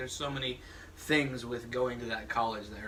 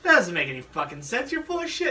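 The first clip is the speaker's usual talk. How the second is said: incredulous retort; 8 semitones higher, 5 dB louder than usual. Retold or imitated. Acts out disbelieving listeners' retort.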